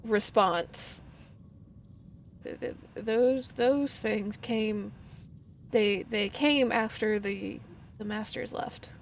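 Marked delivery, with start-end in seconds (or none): 2.5-8.9 stuttering. Acted. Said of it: "stuttering almost response".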